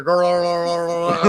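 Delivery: throaty gargle noise; gargling parrot growl. Retold or imitated. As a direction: imitate a bird gargling. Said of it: "you hear him out there".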